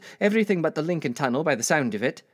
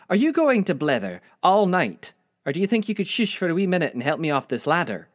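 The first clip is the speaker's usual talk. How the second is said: scolding Scottish granny, raised voice; impatient Scottish grandmother; Granny Ella; 4 semitones higher than usual. Acted. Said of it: "I see my Granny Ella from Scotland".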